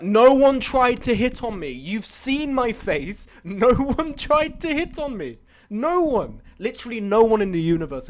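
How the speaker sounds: slow, high, emphatic denial; incredulous protest. Real, not acted. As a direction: drag out each word in disbelief. Protests chat's claim of flirting.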